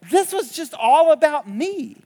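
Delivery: slow stress on this and me; emphatic quote. Retold or imitated. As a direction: lean on each word, slowly. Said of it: "when Jesus read this story, he said".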